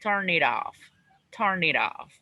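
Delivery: "Turn it off" linked as one word, stress on "turn"; teacher models "Turn it off" joined up; model pronunciation. Shown as a demonstration. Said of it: "one whole pronunciation".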